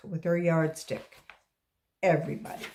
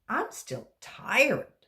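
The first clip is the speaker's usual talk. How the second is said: tired; 7 semitones higher, 3 dB louder, slower than usual. Acted. Tired child.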